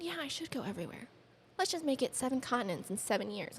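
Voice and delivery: high-pitched quote of an eager self; high retold resolve; retold eager decision. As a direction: pitch it up high, acting out a sudden idea. Acts out own eager decision.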